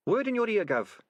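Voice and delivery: high cheery rat voice; a cheeky rat admiring; Sardines voice. Acted.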